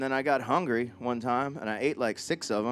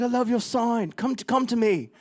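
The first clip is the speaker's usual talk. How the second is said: high, crooning imitation of a pop star; 8 semitones higher than usual. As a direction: play a star beckoning a fan from the stage. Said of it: "He's like".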